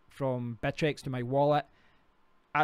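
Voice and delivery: normal talking voice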